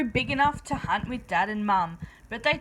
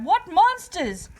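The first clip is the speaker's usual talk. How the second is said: higher, louder slow gasp of fright; frightened cry; 7 semitones higher, 5 dB louder, slower than usual. A narrator's reading. Sister seeing their reflection, frightened cry. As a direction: recoil as you say it. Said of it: "and one cried".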